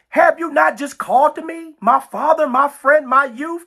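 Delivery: lightly acted plea for attention; pleading. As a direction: appeal to a father like a needy child. Acting out Judah pleading to God.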